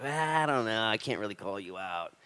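put-on hesitant excuse; mock reluctance. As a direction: imitate a wishy-washy objector. Mimicking timid politically correct people.

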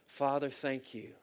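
measured, earnest prayer voice; closing prayer. Real, not acted. Pastor praying over listening church, earnest.

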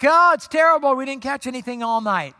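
loud, high shouted reply, easing off; yelling back. Acted. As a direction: holler the answer back to shore. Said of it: "And they yell back".

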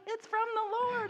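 very high, emphatic on "Lord"; joyful declaration. Retold or imitated. Rebecca telling teachers Chris's French came from God, triumphant. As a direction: announce it triumphantly. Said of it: "And I was like".

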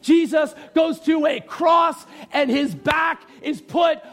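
slow, emphatic preacher delivery; emphatic preaching. Real, not acted. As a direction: preach it in measured, weighty phrases.

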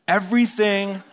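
"Everything" breaking into a laugh. Real, not acted. Preacher amused by the lawyer's setup, laughing. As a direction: laugh as the trick dawns on you.

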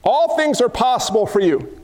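a hint of earnest prayer; Jesus praying. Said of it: "And he said".

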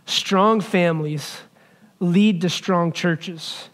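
Strong families lead to strong churches, each word slow and weighted, stress on strong; slow emphatic statement. Shown as a demonstration. Pastor driving home his main point, slow and weighted. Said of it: "here's the big statement".

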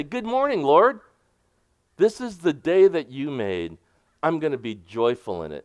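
bright, high good morning to God; cheerful morning greeting. Shown as a demonstration. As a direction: greet the Lord like waking up happy. Acting out a morning prayer.

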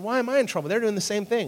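put-on high, indignant child's whine; a kid protesting unfairness to dad; whiny kid protest. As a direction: protest like a kid who got caught. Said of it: "And I said".

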